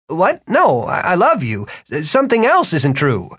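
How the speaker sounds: correcting himself in a rush; flustered young man. Acted. Martin explains.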